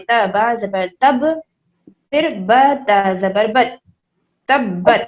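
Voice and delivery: put-on slow spelled-out تب زبر تب for children; spelling out. Shown as a demonstration. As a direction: sound out تب letter by letter. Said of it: "تو تا کو ہم ملائیں گے".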